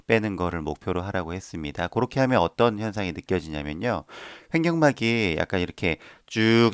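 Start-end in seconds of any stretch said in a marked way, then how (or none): none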